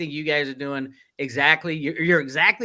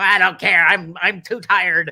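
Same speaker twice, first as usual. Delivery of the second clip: put-on loud, slow, cranky, grumpy old man voice; 3 semitones higher, 6 dB louder than usual. Acting out his own reply to requests passed along, in a put-on grumpy old man voice. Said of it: "that's my grumpy old man voice".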